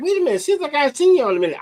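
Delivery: mock surprise. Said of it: "I'm like".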